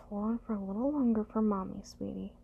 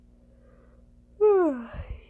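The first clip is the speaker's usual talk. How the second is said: sleepy sigh; 8 semitones higher, 14 dB louder than usual. Acted.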